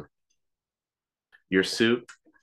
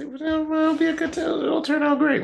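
mock reassuring; 4 dB louder than usual. Reassuring nervous friend.

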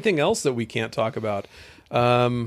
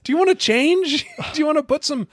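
high, laughing teasing question; laughing tease; 12 semitones higher than usual. Real, not acted. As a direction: tease him through laughter. Teasing partner about spilled beer.

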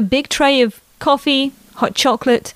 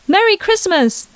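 put-on high, bright little-girl Merry Christmas, hitting Merry; a four-year-old bursting with Christmas joy; excited child; 9 semitones higher than usual. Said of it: "the little girl exclaimed".

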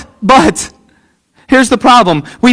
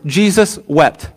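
slow, solemn; 5 semitones lower, 5 dB quieter, slower than usual. Acted. Solemn scripture quote.

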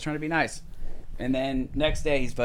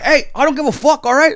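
loud, high furious yell; retold cursing shout; imitated angry kitchen guy; 7 dB louder than usual. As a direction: bellow him out of the place. Kitchen guy in acted quarrel.

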